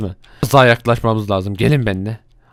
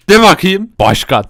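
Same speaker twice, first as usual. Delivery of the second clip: the same words pitched clearly higher; a higher go at the title; higher repeat; 5 semitones higher than usual. Shown as a demonstration. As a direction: ask again higher up. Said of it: "Sen de de".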